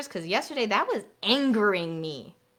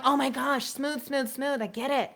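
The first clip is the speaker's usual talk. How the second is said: bored mock groan; 6 semitones higher than usual. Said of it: "How many of you were going".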